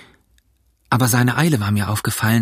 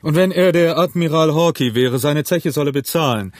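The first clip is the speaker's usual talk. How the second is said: raised, indignant exclamation; higher-pitched landlord's protest; calling out; 4 semitones higher than usual. A narrator's reading. Innkeeper demands the unpaid bill, calling out. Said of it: "rief Silver".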